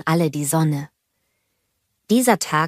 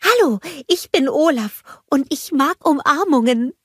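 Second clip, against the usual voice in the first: higher snowman voice, friendly introduction; Olaf; 8 semitones higher than usual. A narrator's reading. Snowman greeting the envoy, high friendly character voice. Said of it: "blickte er schüchtern".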